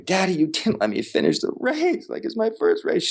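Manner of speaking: high, wailing child's cry, mocked; imitating a scream. Dad retelling his daughter's outburst, high mock wail. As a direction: squeal it like a heartbroken little girl.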